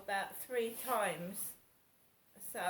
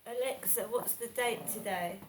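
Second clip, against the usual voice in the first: louder, clear command to a speaker; talking to voice assistant; 6 dB louder than usual. Real, not acted. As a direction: call the question across the room. Asks Alexa.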